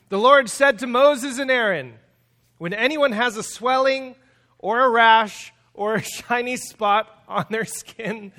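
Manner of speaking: loud reading breaking into laughter; laughing while reading. Real, not acted. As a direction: read scripture, trying not to laugh. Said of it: "can't even read this without laughing".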